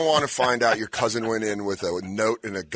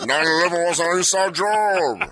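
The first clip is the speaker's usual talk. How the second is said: Andre the Giant conspiracy theorist; 3 semitones higher than usual. Retold or imitated. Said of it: "Andre the Giant conspiracy theorist".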